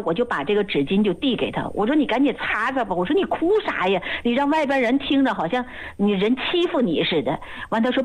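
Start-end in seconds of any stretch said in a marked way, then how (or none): 2.0-7.4 mildly flustered urging; retold impatience. Assistant handing tissues to a sobbing patient, impatient. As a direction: hurry the crying patient along, a touch exasperated. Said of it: "给我急了".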